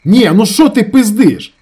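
high, very loud, slow; furious shout. A narrator's reading. Ravzan turns on his brother, furious. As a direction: rage at him.

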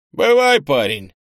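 loud, high hearty goodbye; booming send-off; shouted farewell. Acted. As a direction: call it out boisterously. Big stranger shouts a farewell.

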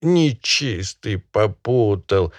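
high, quavering peasant pleading; a hint of a trembling plea to the master; trembling excuse. Peasant excusing himself to the barin, high and quavering.

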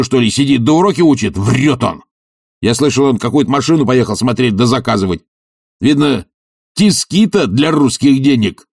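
a brash bully's derisive rant; Tarantyev's scornful voice. Acted. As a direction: sneer at the idea of study. Tarantyev keeps ranting.

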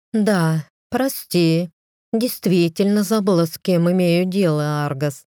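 honeyed, mockingly sweet apology, lightly sung; sugary singsong. Wife mockingly apologises to her lord in honeyed singsong. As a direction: sweeten every word, mocking him. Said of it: "пропела она елейным голосом".

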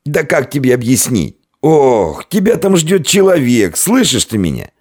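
high, panicky pleading; frightened babbling. A narrator's reading. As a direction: babble in fright at a raging drunk. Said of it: "залепетал перепуганный хозяин".

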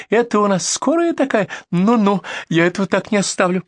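high-pitched indignant threat; shrieking. Acted. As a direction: keep squealing with outrage. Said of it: "взвизгнула соседка".

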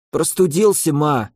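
sick son croaking to his mother; hoarse. Acted. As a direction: push the words through a raw throat. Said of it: "прохрипел Фил".

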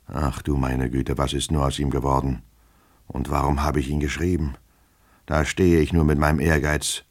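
subdued worried lament; self-reproaching lament. Acted. Master regretting the letter he wrote, subdued lament.

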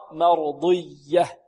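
مرضية slow, emphatic ض; careful Quranic demo of مرضية; ḍad with itbaq. Shown as a demonstration. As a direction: draw out مرضية with heavy ḍad. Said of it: "المحافظة على إطلاق الضاد".

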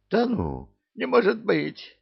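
high disbelieving cry; sudden alarm, voice jumps up. A narrator's reading. Koschei alarmed.

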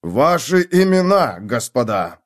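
loud, slow growled names; a sergeant losing patience with the strangers; growled demand. Acted. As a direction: growl it with menace. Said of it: "прорычал сержант".

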